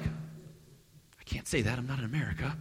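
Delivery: slow, soft whisper to himself; whispered aside. Retold or imitated. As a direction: catch yourself and whisper it. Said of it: "and I was like".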